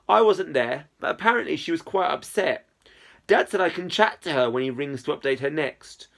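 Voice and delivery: clear, expressive audiobook reading; story narration. A narrator's reading. Narrator telling of a chat with Izzy, story narration. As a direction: read the story aloud with lively phrasing.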